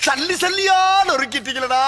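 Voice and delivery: wailing through tears; crying lament. Acted. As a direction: sob it out like you've been smashed to bits. Comic lament after being crushed.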